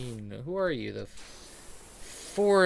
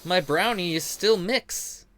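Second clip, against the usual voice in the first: whiny confused user; 7 semitones higher than usual. Retold or imitated. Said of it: "and they're like".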